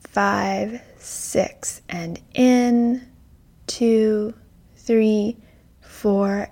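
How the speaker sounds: slow guided breath count. Acted. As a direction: count the breaths calmly and slowly.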